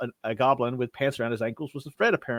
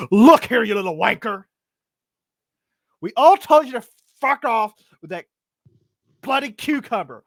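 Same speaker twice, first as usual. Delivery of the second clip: furious cleric rant; 9 semitones higher than usual. Acted. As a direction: tear into the little gnome, shouting. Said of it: "he just goes postal".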